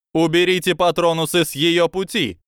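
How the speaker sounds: high, loud command; commanding shout. A narrator's reading. Auror Komodo orders everyone, commanding shout. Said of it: "командирским голосом".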